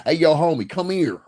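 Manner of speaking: loud, high holler to a stranger; calling out. Retold or imitated. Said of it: "motherfuckers be like".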